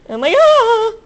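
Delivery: high, loud shocked oh my god; sudden loud disbelief; shocked exclamation. Real, not acted. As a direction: blurt it out in shock.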